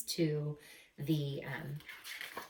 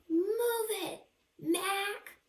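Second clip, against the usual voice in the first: gruff trucker; 13 semitones higher, much slower than usual. Acted. Trucker voice in the book.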